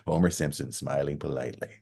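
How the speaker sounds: flat polite self-introduction, lightly voiced; deadpan Homer quote. Homer meeting a singer, mildly mocked deadpan. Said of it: "And he goes".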